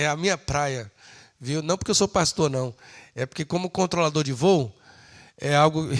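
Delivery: ordinary talk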